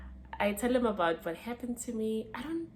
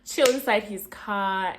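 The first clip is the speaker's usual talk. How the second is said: amused emphasis; 7 dB louder, slower than usual. Real, not acted. Laughing repeat with emphasis.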